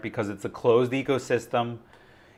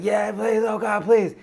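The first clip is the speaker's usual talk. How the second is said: higher pitched mock plea in a Spanish-free movie retelling; imitating a begging man; 9 semitones higher than usual. Retelling a wounded soldier begging for relief, higher mock plea. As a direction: whine it like a wounded guy pleading.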